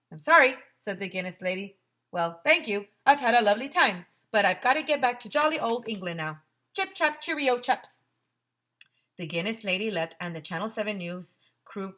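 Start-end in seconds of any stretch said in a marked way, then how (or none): 0.1-8.0 cheery, loud jolly-British farewell; British accent. Acted. Guinness lady leaving for England, jolly British accent. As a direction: bid goodbye like a jolly English lady.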